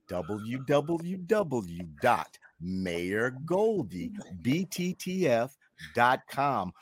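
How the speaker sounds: very slow, spelled-out web address; slow, measured dictation of a URL. Shown as a demonstration. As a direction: draw out each letter and word so it can be copied down. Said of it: "I'll do it slower".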